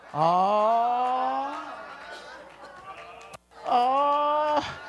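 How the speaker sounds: long drawn-out, soothing "ohh"; a long held pitying oh; mock sympathetic "oh".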